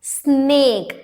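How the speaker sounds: स्नेक drawn out as one long syllable; stretched-out word. Shown as a demonstration. Teacher showing students one vowel sound, स्नेक stretched out. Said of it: "इसमें कितने vowel के sound आ रहे हैं".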